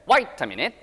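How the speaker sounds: Australian "Wait" said as "wite"; rising Aussie pronunciation; Australian accent. Shown as a demonstration. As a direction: say "Wait" with an "ai" vowel, Australian style. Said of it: "아이처럼 발음하시면 호주식이에요".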